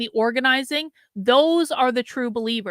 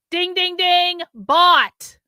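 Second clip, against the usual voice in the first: game show winner; 7 semitones higher, 5 dB louder, much slower than usual. Pretend. Rewarding the right answer from chat.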